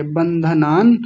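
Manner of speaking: बंधनान with the final n sounded; said in full. Shown as a demonstration. Teacher urging pupils on, complete बंधनान. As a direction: pronounce every syllable of बंधनान. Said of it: "आप पूरा बोलिए".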